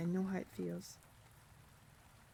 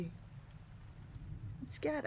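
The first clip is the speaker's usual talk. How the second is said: scared; 6 semitones higher, 6 dB quieter than usual. Acted. Johnny confesses on the ledge.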